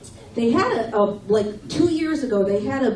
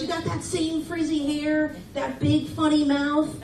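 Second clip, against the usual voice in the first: mocking the guy; 5 semitones higher than usual. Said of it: "He goes".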